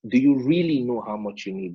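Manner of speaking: emphasis landing on "really" in the question; stress on "really". Real, not acted. Teacher recapping a key question to students, stressing "really". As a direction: lean on the word "really". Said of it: "I put emphasis on the word really".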